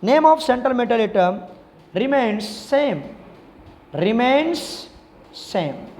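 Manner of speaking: slow, drawn-out dictation pace for notes. Shown as a demonstration. Teacher dictating a rule to students, slow and drawn out. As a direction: spell out the rule so students can write it.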